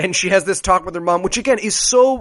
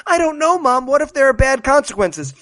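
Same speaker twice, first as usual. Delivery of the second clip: whiny daughter; 5 semitones higher than usual. Retold or imitated. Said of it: "me being like".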